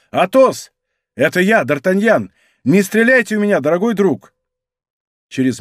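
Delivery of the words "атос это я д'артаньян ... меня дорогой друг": louder, higher call up to the house; shouted. Acted. D'Artagnan on the ladder calling Athos, loud call. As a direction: call out to a friend inside. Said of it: "и закричал".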